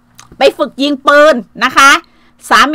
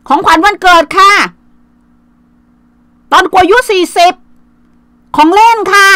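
higher, sing-song mock brag; mocking a show-off; 6 semitones higher than usual. Aunt mocks a bragging woman showing off her things, higher mock voice.

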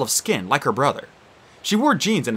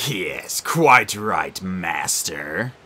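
amused; 6 semitones lower, much slower than usual. Acted. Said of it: "Minos said with amusement".

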